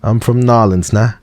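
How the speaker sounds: "Nolens" said as one slurred word, high and hammed up; Louisiana accent. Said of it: "Is that a good Nolens accent?".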